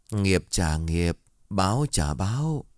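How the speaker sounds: slow, ominous pronouncement; eerie child. Acted. Uncanny child warns the dog buyer, slow and eerie. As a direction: speak each word slowly like a curse. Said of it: "nụ cười quái dị".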